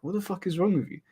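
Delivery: mock exasperated yell at a reckless friend; retold angry outburst. Friend angry after bike crash.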